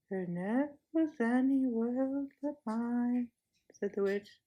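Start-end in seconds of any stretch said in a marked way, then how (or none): 0.1-3.3 slow, softer spell-casting; lulling. Acted. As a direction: press the spell home softly. Witch lulling.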